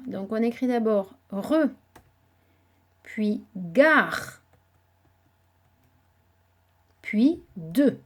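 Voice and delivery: re, gare, de each set apart and loud; syllable by syllable. Shown as a demonstration. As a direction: sound out "re", "gare", "de" one by one. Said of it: "trois syllabes". ("re", "gare", "de" détachés, syllabe par syllabe)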